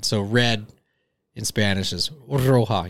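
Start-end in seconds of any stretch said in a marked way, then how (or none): 2.3-2.9 "roja" with a trilled R at the start; rolled R. Shown as a demonstration. Explaining red in Spanish, rolled R on "roja". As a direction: roll the R in "roja". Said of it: "You gotta roll your R's".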